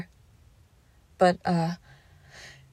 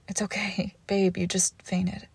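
soft, slow reassuring whisper; calm them down gently; soothing whisper; 4 dB quieter than usual. Acted. Comforting partner after fainting.

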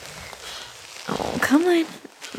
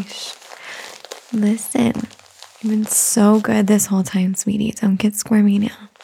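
put-on soothing a child. Calming a squirmy baby.

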